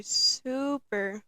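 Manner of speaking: "super" drawn out for emphasis; emphatic super. Real, not acted. Podcaster stressing how shy she was, emphatic "super". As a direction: stretch "super" as the peak of the repeats. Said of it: "sorry if that was loud".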